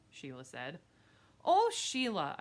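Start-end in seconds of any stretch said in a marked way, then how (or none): 1.4-2.4 high, loud "oh" that falls away; annoyed kid shouting; exasperated shout. Acted. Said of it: "I shouted".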